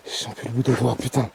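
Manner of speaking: freezing, teeth-chattering speech; shivering with cold. Real, not acted. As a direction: talk like you're frozen stiff. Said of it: "je suis totalement frigorifié".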